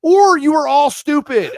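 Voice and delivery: high, loud, slow exasperation; exasperated retort. Retold or imitated. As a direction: lay it on thick, slow and loud. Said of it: "And I was like".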